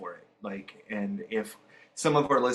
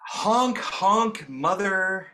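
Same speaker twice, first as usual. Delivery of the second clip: high, loud honking clown; silly clown; 7 semitones higher, 4 dB louder, much slower than usual. Acted. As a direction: honk it out like a clown. Clown guest introduced, honks.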